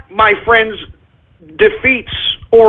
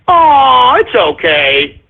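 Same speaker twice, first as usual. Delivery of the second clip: drawn-out mock sympathy; a slow, indulgent "oh" falling away; forgiving bystander; 3 semitones higher, much slower than usual. Acting forgiving bystander's reply.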